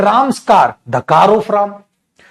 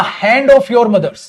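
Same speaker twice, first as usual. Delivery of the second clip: slow dictation; much slower than usual. Shown as a demonstration. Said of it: "ऐसे भी लिख सकता हूं".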